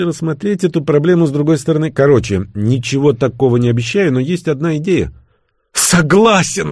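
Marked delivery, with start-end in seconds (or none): 5.7-6.7 roaring agreement. Acted. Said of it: "взревел отставной полковник голосом".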